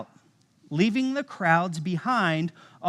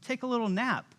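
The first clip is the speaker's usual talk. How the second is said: high, fast, breezy mock Jesus asking for a cushion; lazy Jesus; 10 semitones higher, 6 dB quieter, faster than usual. Preacher voicing a sleepy Jesus wanting a cushion, high and breezy. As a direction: toss it off like you're ready to nap. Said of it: "He was like".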